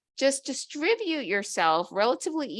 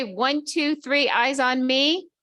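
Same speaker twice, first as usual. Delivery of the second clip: high, loud, slow call for attention; sing-song teacher calling the class; kindergarten teacher voice; 5 semitones higher, 5 dB louder, slower than usual. Shown as a demonstration. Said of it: "This is what they do in kindergarten".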